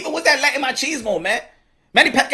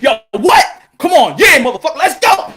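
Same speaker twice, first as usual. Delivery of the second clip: mock street challenge; 3 semitones higher, 5 dB louder than usual. Acted street fight challenge.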